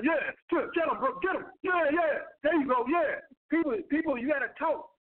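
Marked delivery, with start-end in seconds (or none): 0.0-3.2 higher, cheering along; hyped listener. Retold or imitated. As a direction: egg the speaker on like a fired-up fan. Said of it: "people listen like".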